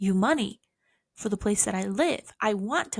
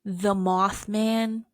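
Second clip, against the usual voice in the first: slow dramatic; much slower than usual. Pretend. Dramatic naming.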